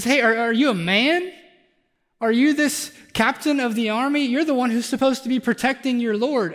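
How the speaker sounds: scornful called-out taunt to the army captain; mocking yell. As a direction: yell up at him and mock him. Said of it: "he just yells at him".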